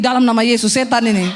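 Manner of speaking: hammed-up rebuke in Jesus' name; mock rebuke. Congregant rebukes the preacher as a devil, mock loud. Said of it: "Langsung dia tengking".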